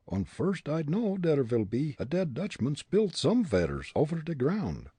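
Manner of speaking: a comic German detective, worried on the roof; German accent. Acted. Fritz on the slippery roof, German accent.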